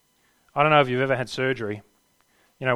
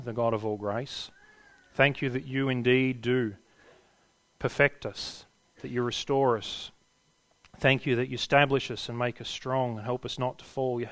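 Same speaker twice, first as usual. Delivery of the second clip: prayer; 4 dB quieter than usual. Acted. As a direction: pray gently to the Father. Closing prayer.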